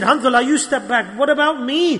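mildly upset retold reaction, pitch rising. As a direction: act out sudden worry for oneself. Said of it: "He was upset".

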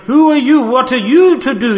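preacher's high, loud rebuke; rebuking challenge. Real, not acted. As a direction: fling the question at the listener.

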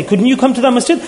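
stern questioning. Acted. Allah challenges someone's excuse, stern questioning. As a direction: demand an answer to the excuse.

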